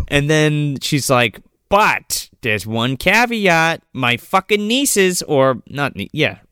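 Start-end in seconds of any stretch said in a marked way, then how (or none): 1.7-5.2 evil monologue. Retold or imitated. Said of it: "in an evil monologue".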